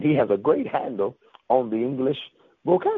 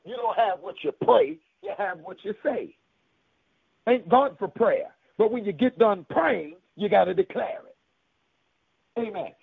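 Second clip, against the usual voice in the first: emphatic preacher cadence, phrases set apart by pauses; preaching; 7 semitones higher than usual. Real, not acted. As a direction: declare it to the congregation. Preaches to the congregation.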